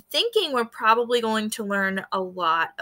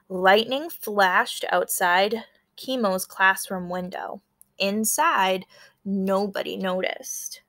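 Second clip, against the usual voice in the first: story narration; 2 semitones lower than usual. A narrator's reading. Teacher reading a picture book to her class, storytelling. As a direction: tell the storm scene to the class.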